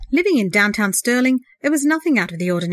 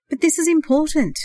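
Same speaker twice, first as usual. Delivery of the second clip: higher and urgent, pleading; earnest pleading; 8 semitones higher, 3 dB louder than usual. A narrator's reading. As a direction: brother pleads with his unwilling brother, earnest urgency. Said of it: "the earnest voice pleaded".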